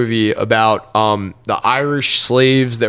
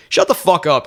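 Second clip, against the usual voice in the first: higher, irritated retort replayed; retold annoyed comeback; 6 semitones higher than usual. Cook answers coworker who mocked his haircut, annoyed. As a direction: snap back in mock annoyance.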